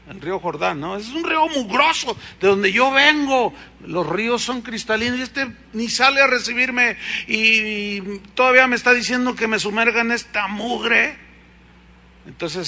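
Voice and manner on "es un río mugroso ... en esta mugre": indignant Naaman. Retold or imitated. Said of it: "se va todo enojado".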